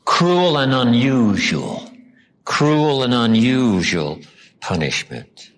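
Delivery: "Cruel and unusual" drawn out slowly, CRUEL stressed; slow, stressed phrase. Shown as a demonstration. Pastor drilling the congregation on the phrase, slow and deliberate. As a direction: spell out "Cruel and unusual" word by word. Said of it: "They must not suffer what?".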